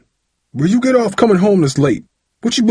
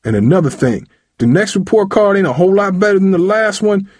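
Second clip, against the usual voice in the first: high, loud, threatening lecture; angry tirade; 9 semitones higher, 4 dB louder than usual. A narrator's reading. Father shakes son and threatens him, angry tirade. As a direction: lay down the law furiously. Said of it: "shaking Tyree for emphasis".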